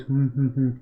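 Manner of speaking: mock monotone mumbling. Shown as a demonstration. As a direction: drone it like a bored, monotone presenter. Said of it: "just a monotone voice".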